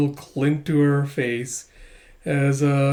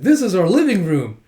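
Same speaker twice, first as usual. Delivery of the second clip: proud showing-off; 4 semitones higher, 6 dB louder than usual. Acted. Child proudly shows off her home.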